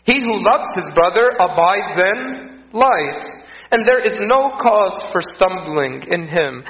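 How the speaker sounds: scripture reading. Acted. Preacher reading scripture to the congregation, solemn.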